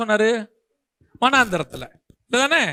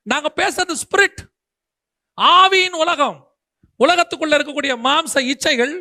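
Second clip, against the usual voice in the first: raised, insistent preacher's delivery; forceful preaching; 4 semitones higher than usual. Real, not acted. Preacher challenging the congregation about worldliness, forceful preaching. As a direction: press each point home to the congregation.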